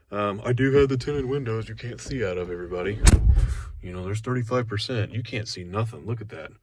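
deadpan fake complaint about the dark tint; sarcastic. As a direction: play it dry, pretending it's pitch black. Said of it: "I'm being sarcastic".

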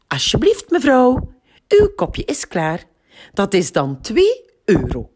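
high girl playing a polite waitress; a girl serving her mum in the bath; pretend waitress.

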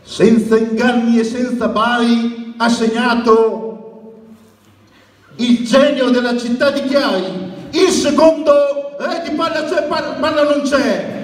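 stadium announcer goal rhyme and chant; breathless italian goal commentary. Shown as a demonstration. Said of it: "E quando segnava Alex cosa dicevi?".

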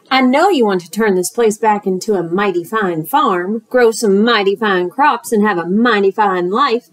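lightly voiced smooth-talking fox; sly fox. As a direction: coax him like a friendly huckster. Fox's sales patter.

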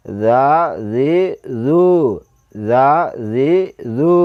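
soft Arabic letter with drawn-out vowels; soft articulation. Shown as a demonstration. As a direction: say জা জি জু softly articulated, each vowel held. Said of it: "নরম করে বলতে হবে".

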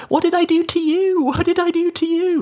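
high, taunting sing-song; mock it like a playground bully, very high. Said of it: "repeating it back in this sort of sing-song voice".

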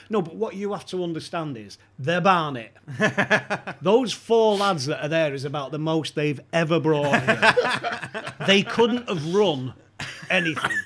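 can barely get it out for laughing; laughing through the quote. Retold or imitated. Lanks argues, teller laughing.

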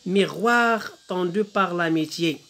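slow, stretched-out French verse; poem recitation. Shown as a demonstration. Teacher reads the poem to pupils, slow poem recitation. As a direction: recite the line unhurriedly, vowels drawn out. Reading poem aloud in lesson.

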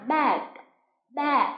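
"bad" with the closing d sounded; clear final consonant. Shown as a demonstration. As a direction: finish each "bad" on an audible d. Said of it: "luôn luôn chú ý âm cuối".

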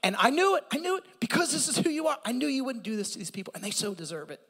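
a touch of high, fast griping; Jonah's complaint. Acted. Preacher voicing Jonah's irritated prayer, quick and high. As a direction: rattle it off like an irritated prophet. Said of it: "And he said".

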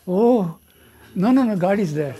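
mildly acted joyful relief; happy relief, retold. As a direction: exclaim it as her relieved cry. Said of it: "so happy".

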